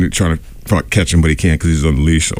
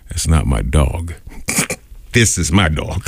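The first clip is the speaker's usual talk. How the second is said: deadpan; 3 semitones lower, slower than usual. Retold or imitated. Deadpan punchline to upset man.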